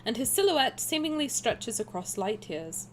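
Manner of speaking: posh, measured narration; proper speech. Shown as a demonstration. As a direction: read it carefully enunciated like royalty. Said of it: "I'll speak properly".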